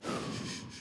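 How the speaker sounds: long, soft breath out; quiet drawn-out sigh of relief; imitated smoking exhale. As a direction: blow out smoke slowly. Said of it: "they light me up".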